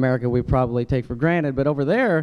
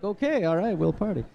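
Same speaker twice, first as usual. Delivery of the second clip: softer tired agreement; weary give-in; 4 semitones higher, 5 dB quieter than usual. Retold or imitated. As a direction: give in, exhausted. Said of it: "You're like".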